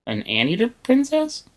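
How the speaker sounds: high amused "Anteater princess?"; amused disbelief. Real, not acted. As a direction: ask it in delighted disbelief.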